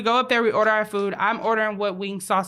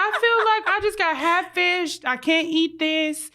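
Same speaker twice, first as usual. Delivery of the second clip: mock complaint; 5 semitones higher than usual. Woman acting out her complaint over wings and hot sauce, mock indignant. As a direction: play up the wronged diner, pitched high.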